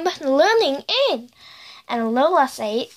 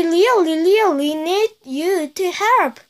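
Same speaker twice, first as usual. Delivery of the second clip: higher, insistent plea; pleading; 5 semitones higher, 3 dB louder than usual. A narrator's reading. Lola begs Charlie to help, higher insistent plea. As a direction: plead with emphasis on each really.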